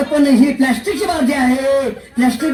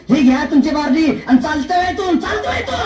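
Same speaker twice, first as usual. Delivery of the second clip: angry dismissal; 3 semitones higher than usual. Acted. Teacher throws boys out.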